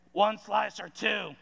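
a hint of a curt lunch lady, slowed down; lightly voiced cafeteria server, slow and deliberate; cranky lunch lady. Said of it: "I promise it was just like that".

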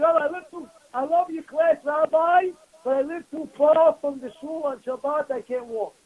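mock the excuse-maker's whine; whiny excuse. Congregant making excuses to rabbi.

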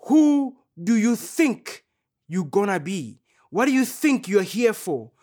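mock world's taunt. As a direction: throw the sneer back at them. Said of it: "continues to scream and say".

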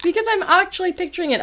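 high, laughing through the words; can barely talk for laughing; laughing hard. Real, not acted. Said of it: "I'm crying".

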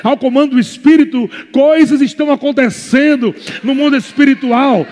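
fervent pulpit crescendo; building sermon. Acted. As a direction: preach it up to a shout. Preaching builds to full force.

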